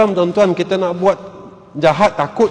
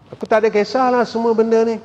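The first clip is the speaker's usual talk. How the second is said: arrogant shrug; 5 semitones higher, faster than usual. Acted. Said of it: "dengan sikap sombong dia".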